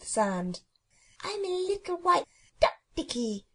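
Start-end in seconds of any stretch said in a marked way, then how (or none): 1.2-3.5 put-on happy toddler voice. Small child on a sunny beach calling himself a duck, happy toddler voice. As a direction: chirp it like a delighted toddler.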